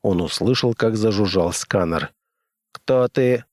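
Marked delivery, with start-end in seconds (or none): 2.7-3.4 metallic robot voice. Acted. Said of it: "раздался металлический голос".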